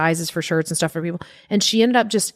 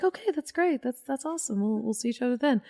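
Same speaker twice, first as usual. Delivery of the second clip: quoting Tig; 7 semitones higher, 8 dB quieter than usual. Retold or imitated. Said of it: "and she was like".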